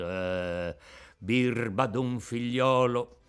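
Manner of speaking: a saddened father's gentle reproach; sad. Acted. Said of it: "si fece triste e melanconico". (tono triste e malinconico, contenuto)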